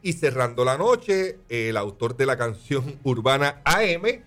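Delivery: slow, stretched headliner announcement; drawn-out announcer. Acted. Host announcing the closing act, slow stretched MC call. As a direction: drag out the headliner's name like a stage MC.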